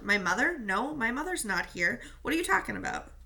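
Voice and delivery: defensive snarl, rising in disbelief; a hurt boy snapping back; mild hammed-up snarl. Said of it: "He snarled".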